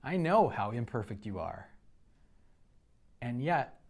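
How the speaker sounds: low, soft reassurance; hushed divine reassurance; soft reassuring voice. Retold or imitated. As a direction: answer gently, like a loving father. God's reassuring reply voiced.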